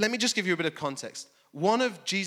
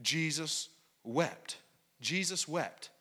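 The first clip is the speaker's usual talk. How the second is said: hushed repeat; 5 dB quieter, much slower than usual. Shown as a demonstration. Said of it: "the humanity of Christ".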